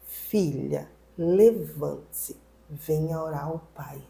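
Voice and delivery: slow, low, solemn call; low, drawn-out retold summons; God's voice imitated. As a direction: imitate God calling slowly, softening towards the end. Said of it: "ele falou assim, ó".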